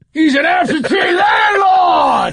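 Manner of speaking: very high, slow, drawn-out booming shout. Acting out a take as the director calls roll sound: Al Pacino shouting. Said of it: "Al, you're still shouting".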